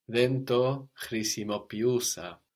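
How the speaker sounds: slow model, χρησιμοποιούσα as khrisimopi-oúsa; E sound kept. Shown as a demonstration. Teacher modelling the correction, χρησιμοποιούσα with ee kept. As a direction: slowly sound the ee before ou in χρησιμοποιούσα. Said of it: "you shouldn't lose the E sound".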